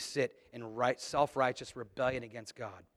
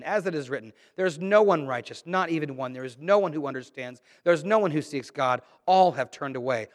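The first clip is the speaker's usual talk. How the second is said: measured, emphatic reading of Romans; scripture reading; 3 dB louder than usual. Acted. Preacher reading scripture to the congregation, emphatic. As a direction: read the verses with weight. Reads scripture passage aloud.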